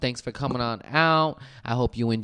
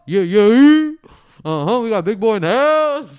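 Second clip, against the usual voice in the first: hype; 11 semitones higher, 10 dB louder than usual. Acted. Hyping the co-host.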